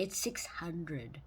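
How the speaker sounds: soft whispered afterthought; hushed whispered aside. Acted. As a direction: whisper it like a secret.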